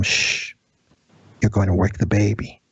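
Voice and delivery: hushed, raspy shushing, retold lightly; raspy whisper. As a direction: shush him like a creature guarding a sleeping baby. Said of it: "raspy whisper".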